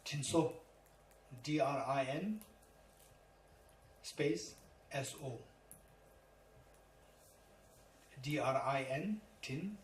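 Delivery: Drinso said as tin-so, spelled D R I N, S O; spelling Tibetan term. Shown as a demonstration. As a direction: spell it letter by letter, then say tinso. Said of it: "Number three".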